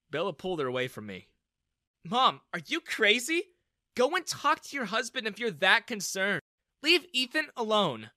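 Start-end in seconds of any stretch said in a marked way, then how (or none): 2.0-8.1 high, loud sharp scolding; angry rebuke. Acted. Daughter pulls her mom away from Ethan, angry. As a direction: snap at her mother.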